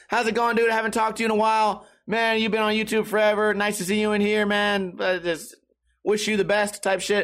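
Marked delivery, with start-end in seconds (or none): 0.1-4.9 friendly, courteous, super nice polite tone. Retelling a greeting in a Twitch chat: imitating Gary Rogers, super nice and polite. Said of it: "Just super nice, polite guy".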